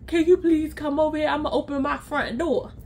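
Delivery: lightly mimicked thick-tongued request; a hint of a friend struggling to talk; imitated slurred friend. Friend asking for a visit, lightly mimicked slur. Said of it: "this is how she sounds".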